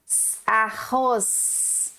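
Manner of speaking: slow, drawn-out "S-, arroz." syllable by syllable; split into syllables. Shown as a demonstration. Teacher slowly sounding out "arroz" for young pupils. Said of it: "O S do finalzinho faz rimar".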